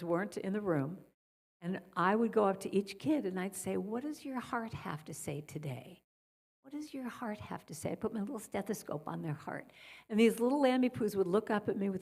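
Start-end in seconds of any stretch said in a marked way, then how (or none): 3.8-7.9 soft, unhurried, tender asking; gentle question. Retold or imitated. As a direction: ask softly, as to a sick child. Gently asking sick children.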